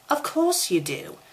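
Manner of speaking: high, indulgent humoring lilt. A narrator's reading. Ginny humoring Harry, in a high indulgent lilt. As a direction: humor him like a poor confused boy. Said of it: "let's humor the poor terminally closeted boy".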